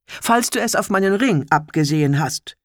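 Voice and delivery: clear commanding voice. Acted. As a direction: warn him plainly and steadily. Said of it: "mit klarer Stimme".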